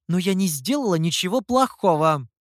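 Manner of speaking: put-on a girl's voice, mildly outraged; indignant girl. A narrator's reading. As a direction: protest you did nothing wrong. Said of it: "возмутилась Юэр". (возмущённо, девичьим голосом)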